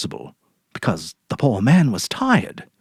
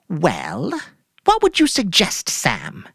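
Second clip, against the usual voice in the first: much higher, airy put-on cheer; forced cheerful wife; 7 semitones higher, slower than usual. Mary ordering groceries from Sam, falsely cheerful. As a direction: play it breezy to hide guilt.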